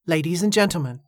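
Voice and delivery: calm, level address to the crowd; steady. Acted. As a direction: hold your voice steady despite nerves. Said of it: "her voice was steady".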